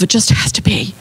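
hushed, voiceless whisper; whispering to herself. A narrator's reading. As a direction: whisper it to yourself. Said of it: "she whispered to herself".

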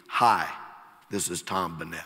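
lightly imitated low, monotone ad voice; monotone radio pitchman. Preacher recalling a motel radio commercial, mildly monotone. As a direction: give a hint of a deadpan radio announcer. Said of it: "in a monotone voice".

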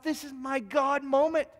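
hogere, trage innerlijke stem; inner thought. Retold or imitated. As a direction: bedenk het plechtig, met hoop. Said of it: "I think to myself".

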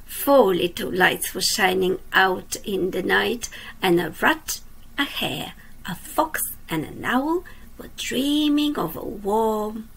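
lively storybook reading for little ones; reading to children. A narrator's reading. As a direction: read it like a bedtime picture book. Reads a picture book aloud.

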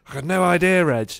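high, loud baffled cry; exasperated outburst. Retold or imitated. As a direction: blurt it out, totally lost. Baffled retold reply to trainer.

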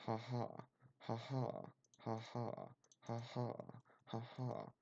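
identical spoken "ha ha"s, evenly spaced; fake laugh. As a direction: pretend to laugh, mechanically and sarcastically. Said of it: "Look how much I'm laughing".

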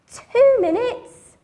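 high slow alarmed question; shocked by the time left. Acted. Alarmed storyteller.

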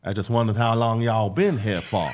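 put-on lightly done American cowboy accent. Repeating the accent on request from his co-host. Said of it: "let me listen to that again".

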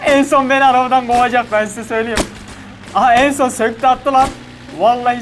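loud disbelief at the driver; excited complaint; exasperated. Real, not acted. Driver rips parts off car.

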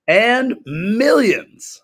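booming, stretched DJ echo; drawn-out echo. Acted. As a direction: drag it out big and loud. Co-host echoes the drawn-out greeting.

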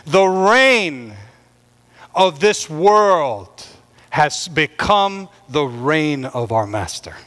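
heavenly proclamation. Acted. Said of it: "there came to be loud voices of heaven".

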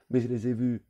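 put-on high, loud child's protest; a slapped boy crying out; howling insistence; wailing protest. A narrator's reading. Boy protesting after slap.

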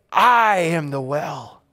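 slow, low-key words of Jesus. Acted. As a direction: offer it like a gift, gently. Jesus voiced, offering himself.

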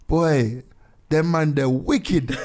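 put-on lightly done Jamaican accent, slow; casual Jamaican accent imitation. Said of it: "like, in a Jamaican accent".

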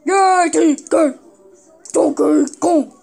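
cheering. Acted. Cheering for winner.

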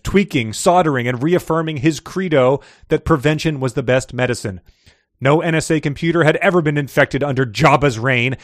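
energetic audiobook-style reading; animated story narration. A narrator's reading. Host reads a character's introduction to co-host, animated narration. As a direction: read it out with a storyteller's relish. Reads a fiction excerpt aloud.

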